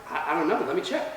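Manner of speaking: soft, stammered reply; stunned hesitation. Retold or imitated. Teenager stalling cop at the door, softly stammering. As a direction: act out a quiet, thrown answer.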